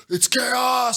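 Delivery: imitating a bug-eyed action hero shouting; Bruce Willis impression. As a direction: ham up a wide-eyed action star. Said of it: "Like Bruce Willis is like".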